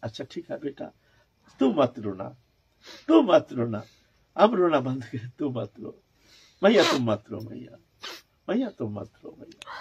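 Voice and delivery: gentle imitation of a mother calming her child; soothing. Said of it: "निमाई को शांत करने के लिए".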